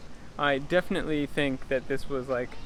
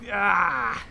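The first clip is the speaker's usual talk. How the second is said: drawn-out, raised "ah" of frustration; exasperated groan; 4 semitones higher, 5 dB louder than usual. Real, not acted. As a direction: let out a frustrated groan mid-sentence. Exasperated about things he dislikes.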